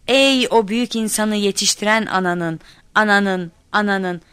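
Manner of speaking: declaimed line, last word stuck repeating; recite, then stall on the final word; stuck-record recitation. A narrator's reading. Child forgetting the poem onstage, stuck like a record. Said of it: "iğnesi takılmış plak gibi tekliyorum".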